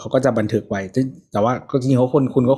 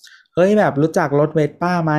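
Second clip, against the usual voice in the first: higher, slow mock call; retold calling out; 5 semitones higher than usual. Rider showing off to passers-by, mild mock shout. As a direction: retell a rider's shout without real volume. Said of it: "เหมือนตะโกนบอกว่าแบบ".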